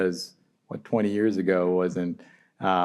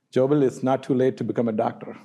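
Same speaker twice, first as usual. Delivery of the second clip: mom voice; 5 semitones higher, faster than usual. Retold or imitated. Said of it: "and she's like".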